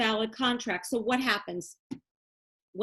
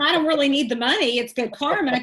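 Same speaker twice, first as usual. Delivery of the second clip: mock casual quote; 5 semitones higher, 6 dB louder than usual. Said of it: "now you're getting angry".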